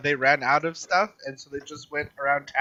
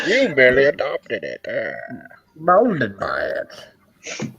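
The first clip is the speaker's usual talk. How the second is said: Bane voice; slower than usual. Retold or imitated. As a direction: do Bane through a covered mouth. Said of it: "Does Bane".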